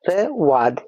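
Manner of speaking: र, then वाद, said as separate pieces; syllable by syllable. Shown as a demonstration. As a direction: sound out र before वाद. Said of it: "जिसे हम बोलते हैं".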